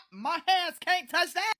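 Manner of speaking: laughing while saying it in disbelief. Retold or imitated. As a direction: laugh through the words.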